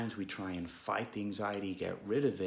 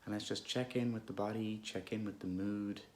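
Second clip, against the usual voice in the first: unhurried, calm meditation guidance with long pauses; guided meditation; 5 dB quieter than usual. Real, not acted. Guide leading listeners through an anxious moment, calm meditation voice. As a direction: gently lead listeners inward, leaving space between phrases.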